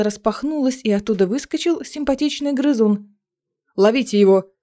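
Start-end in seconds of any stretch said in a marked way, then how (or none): 3.7-4.5 elf exclaiming. Acted. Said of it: "воскликнул эльф".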